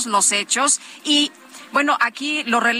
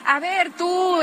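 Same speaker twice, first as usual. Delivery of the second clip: mild mock calling out, higher pitch; gritos imitados; 5 semitones higher than usual. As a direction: imitate people hailing someone they know. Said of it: "le gritaban". (imitando gritos, sin gritar del todo)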